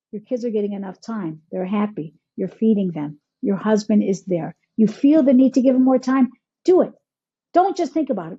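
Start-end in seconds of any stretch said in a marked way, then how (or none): 0.1-4.5 lower-pitched, settled reassurance; reassuring. Acted. Coach answering a worried parent, reassuring. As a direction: talk them down from the worry.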